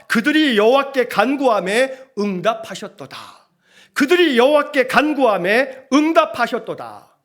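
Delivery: verse declaimed with weight; scripture proclamation. Acted. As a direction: proclaim the verse in measured, ringing phrases. (성경 구절을 힘주어 선포하듯)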